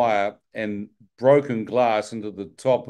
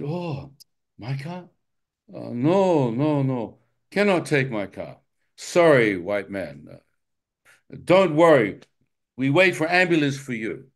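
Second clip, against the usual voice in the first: put-on car owner's accent; 3 semitones higher than usual. Refusing to drive the dying narrator, a lightly imitated accent. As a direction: politely brush off the begging man, a touch of accent.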